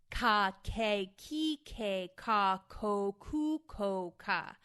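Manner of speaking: loud, crisp overemphasized K syllables; vocal warm-up syllables. Shown as a demonstration. Actor running the K round of her warm-up, loud and crisp. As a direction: snap every K and stretch the vowel. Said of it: "overemphasize the vowels and the consonants".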